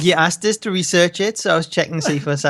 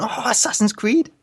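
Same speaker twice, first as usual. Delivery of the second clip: slow, drawn-out mock awe; mock dreamy remark; 7 semitones higher, slower than usual. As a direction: lightly imitate a starstruck fan. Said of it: "he's going".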